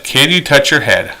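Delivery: a polite request phrased as a question; offered as a yes-or-no question; asking as a question. Shown as a demonstration. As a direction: ask it like a question they can refuse. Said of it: "If I said".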